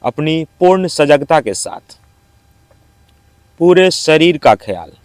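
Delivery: measured yoga nidra instructions with long pauses; guided meditation. Acted. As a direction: guide them calmly into rest, phrase by phrase. (योग निद्रा का शांत निर्देश, ठहर-ठहर कर)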